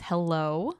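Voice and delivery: drawn-out hello swooping up; mock come-on greeting with a big upward slide; all-caps hello. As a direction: imitate his flirty comment, rising sharply. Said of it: "he commented all caps".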